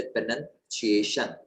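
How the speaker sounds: प्रोनाउंसिएशन sounded out in separate parts; demonstrated pronunciation. Shown as a demonstration. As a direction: model प्रोनाउंसिएशन carefully, syllable by syllable. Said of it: "इसका सही उच्चारण होता है".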